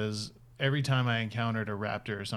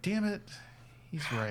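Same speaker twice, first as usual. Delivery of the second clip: grudging adult voice; 6 semitones higher, 5 dB quieter than usual. Retold or imitated. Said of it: "The adult in you was like".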